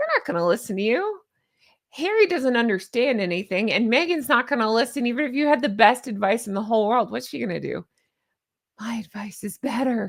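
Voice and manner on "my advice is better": put-on breathy voice, quieter. Imitating what Meghan Markle would say to advisors: breathy Meghan Markle voice. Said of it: "She used to talk breathy. I still do that voice for her".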